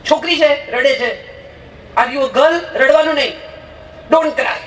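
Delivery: put-on a parent snapping at a crying boy; scolding parent. (રડતા છોકરાને ધમકાવતી માનો નકલી ગુસ્સો)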